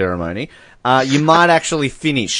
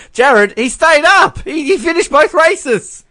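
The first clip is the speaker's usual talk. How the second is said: mock excitement; 3 dB louder, slower than usual. Mock excited sports call.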